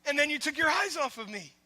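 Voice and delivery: loud, high, cheering voice; Jesus cheering Peter on; enthusiastic encouragement. Retold or imitated. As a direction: cheer him on like a proud coach. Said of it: "He was saying".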